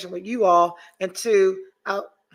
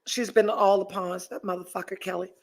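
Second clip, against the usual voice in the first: usual speaking voice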